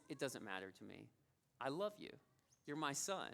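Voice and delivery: tender reassurance. Retold or imitated. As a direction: retell a dad's quiet, loving reassurance. Father reassures his sobbing son.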